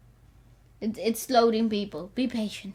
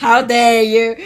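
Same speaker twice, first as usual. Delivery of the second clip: laughing; 3 semitones lower, 9 dB louder, slower than usual. Real, not acted. Laughing repeat.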